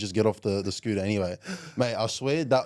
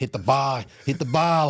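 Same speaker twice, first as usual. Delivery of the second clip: higher, louder shouted order; mock coach yell; 5 semitones higher, 6 dB louder than usual. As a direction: bark it at him over the bar. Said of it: "And he's going".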